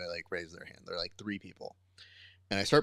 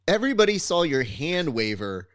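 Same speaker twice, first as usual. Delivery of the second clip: exasperated coach; 4 semitones higher, 5 dB louder than usual. Retold or imitated. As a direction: lay it out to a stubborn student, fed up. Arguing with the stubborn student.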